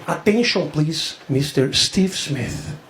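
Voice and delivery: slow, drawn-out PA announcement; airport announcer. Retold or imitated. Comic imitating the airport announcer paging a passenger. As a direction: mimic the airport tannoy calling a name. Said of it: "the guy saying".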